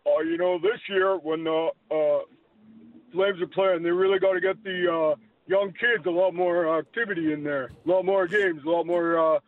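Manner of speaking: half-convincing movie tough guy with a dopey touch; Sylvester Stallone. Acted. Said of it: "do a better Sly Stallone".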